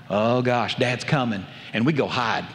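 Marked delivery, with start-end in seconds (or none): 0.1-1.4 low, hushed groan of dread at the truck; children sinking as punishment nears; dreading kids. Retold or imitated. Kids hear Dad's truck on bad day, lower dread. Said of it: "But then there was those other days".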